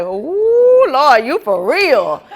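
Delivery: slow, thrilled oh Lord; excited disbelief. Retold or imitated. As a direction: gasp it out like good news just hit. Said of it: "you be like".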